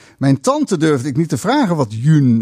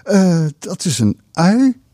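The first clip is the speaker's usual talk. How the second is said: shy; 4 semitones higher, slower than usual. Acted. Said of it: "zei ik verlegen".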